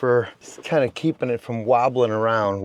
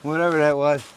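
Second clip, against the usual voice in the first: suddenly higher and louder, thrilled at spotting a mouse; keyed-up camera find; excited; 6 semitones higher, 5 dB louder than usual. Real, not acted. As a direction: blurt it out, excited.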